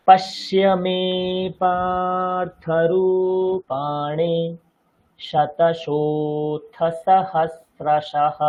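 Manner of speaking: slow chant holding the long syllables longer; long vowels stretched. Shown as a demonstration. Teacher marking long vowels in the verse. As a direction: lean on every দীর্ঘ syllable. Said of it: "প্রথম লাইনটা দেখুন".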